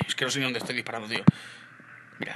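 usual speaking voice

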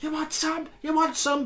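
high, taunting schoolboy voice; hammed-up teen squaring up to a teacher; mock challenge. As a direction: pitch way up and goad like a cornered lad. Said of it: "waving it around going".

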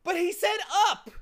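high, loud aggrieved protest; loud, high-voiced grievance; bitter complaint. A narrator's reading. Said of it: "Milo complained bitterly".

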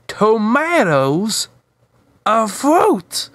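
high, slow indignant question; character voice. Acted. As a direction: act out a disbelieving question. Wanda retorting in character.

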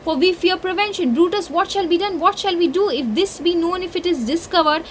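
passionate Cassius. Acted. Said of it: "he's saying it".

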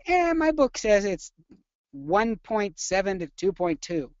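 high, slow, complaining student; whiny student voice. Retold or imitated. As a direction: mimic a whiny know-it-all student. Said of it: "I hear this a lot".

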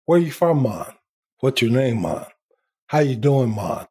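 lightly put-on Jamaican accent; a mild Jamaican lilt for the joke; playful Jamaican accent, low tail on each Mon. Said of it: "Everyone in Jamaica has an accent".

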